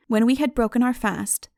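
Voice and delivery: ordinary delivery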